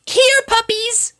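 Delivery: high, slow, loud call. Acted. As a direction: call out across the house. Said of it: "she called out".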